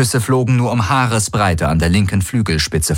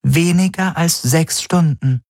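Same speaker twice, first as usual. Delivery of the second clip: slower, weighing each word of „Weniger als sechs Stunden“; slow repeat; 9 semitones higher than usual. Acted. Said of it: "wiederholte die Schattenhelix".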